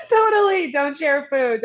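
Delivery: high-pitched, laughing exclamation; laughing agreement. Real, not acted. Both laughing over not sharing.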